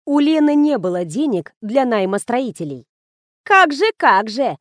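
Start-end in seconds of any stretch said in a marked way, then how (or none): 3.4-4.6 slow, mocking higher snipe; sarcastic interjection from a friend; snide. A narrator's reading. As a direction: needle her with snide sarcasm. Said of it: "ехидно вклинилась в рассказ Фатима".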